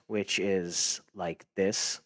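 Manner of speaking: slow it right down, low. Shown as a demonstration. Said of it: "It This".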